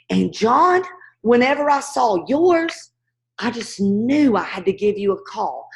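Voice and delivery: upbeat, chatty caller pitching a house; friendly cold call demo. Shown as a demonstration. Caller ringing a homeowner about his house, upbeat and friendly. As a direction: warm friendly phone pitch. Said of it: "So here it goes".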